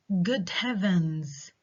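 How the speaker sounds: slow "Good heavens", falling at the end; falling exclamation. Shown as a demonstration. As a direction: draw out "Good heavens" and let it drop. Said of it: "have falling intonation".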